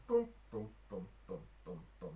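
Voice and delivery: low, soft string-pluck booms; imitated random plucking. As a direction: dull booms, each dropped on its own. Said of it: "They're literally just going".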